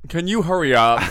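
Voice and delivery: high, loud, bitchy whine; catty. Retold or imitated. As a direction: imitate her snippy demand. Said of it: "Do I sound bitchy".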